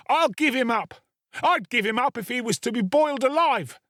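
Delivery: put-on a boy raising the alarm at the top of his voice. Boy rouses the house against the murderer, frantic shouting. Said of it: "becoming more and more excited as he spoke".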